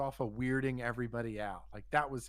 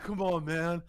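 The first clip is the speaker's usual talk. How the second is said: imitated coaxing; 4 semitones higher, 4 dB louder than usual. Buddy begging masseur, retold.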